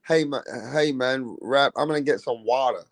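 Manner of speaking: mock American mate talking; British speaker imitating an American; imitated American accent. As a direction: put on an American accent lightly. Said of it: "in America, he'll be saying".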